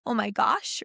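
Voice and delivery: sharp gasp, then mildly startled words; mock fright. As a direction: act out a small scare with a gasp. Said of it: "perceive that as a scare fright".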